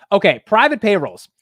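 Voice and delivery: loud, high mock British accent; hammed-up British accent, high-pitched; bad British accent. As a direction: belt it out in a badly faked British accent. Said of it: "I'm so bad at the accent".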